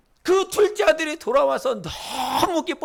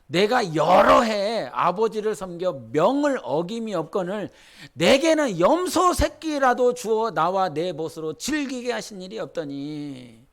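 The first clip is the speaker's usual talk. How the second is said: slow, aggrieved reading with a rise on 여러; the elder son pleading with his father, lightly aggrieved; voicing the first son; 3 semitones lower than usual. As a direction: read it as the resentful elder son complaining. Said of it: "첫째 아들이 하는 거예요".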